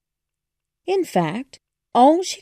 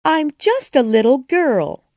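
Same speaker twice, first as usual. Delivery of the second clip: Alice explaining; 8 semitones higher, 6 dB louder than usual. A narrator's reading. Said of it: "explained Alice".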